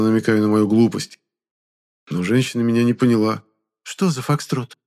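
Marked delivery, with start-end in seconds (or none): 3.8-4.8 surprised. Acted. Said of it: "удивилась она".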